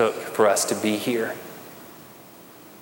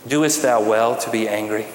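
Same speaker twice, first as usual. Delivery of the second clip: "Doest thou well to be angry?" with a light, lowered archaic formality; King James reading; 3 semitones lower than usual. Shown as a demonstration. Pastor quoting the King James to the congregation, mildly formal. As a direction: give the old wording a touch of scripture-reading gravity. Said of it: "break out the King James Version of the phrase".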